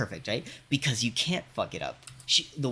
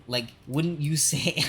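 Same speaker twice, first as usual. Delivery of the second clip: slow, pointed "wouldn't you say"; drawn-out question; 4 semitones higher, 5 dB louder, slower than usual. Retold or imitated. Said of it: "that's what I said".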